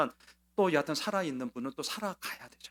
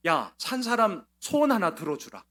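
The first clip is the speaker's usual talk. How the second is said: higher, louder plea on 소원; pleading call; 6 semitones higher, 8 dB louder than usual. Retold or imitated. Mother pleads with unbelieving family on the phone, raised voice. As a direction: beg them loudly to grant one wish. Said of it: "전화 걸어서 이렇게 얘기했습니다".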